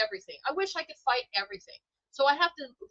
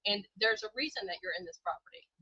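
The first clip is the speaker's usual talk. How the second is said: gentle voice of God; 2 semitones lower, 6 dB quieter than usual. Retold or imitated. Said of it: "the feeling of God's like".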